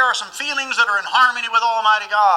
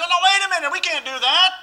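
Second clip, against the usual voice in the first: higher, pleading mock voice of sympathy; 12 semitones higher than usual. Voicing human sympathy objecting to punishment, mock pleading. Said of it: "our human sympathy will think".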